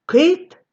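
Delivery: кит said high and sharp, a crisp и; clear кит. Shown as a demonstration. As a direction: pronounce кит distinctly, with a narrow и. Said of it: "яке слово ви вимовляєте". (чітко вимовлене «кит» з вузьким «и»)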